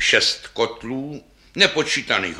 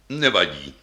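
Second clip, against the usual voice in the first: deep voice; 5 semitones lower than usual. Acted. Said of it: "také hlubokým hlasem".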